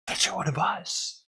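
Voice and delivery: mocking a heartbroken viewer who feels betrayed; mock betrayed fan. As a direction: ham up a betrayed follower gasping. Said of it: "people are gonna be like".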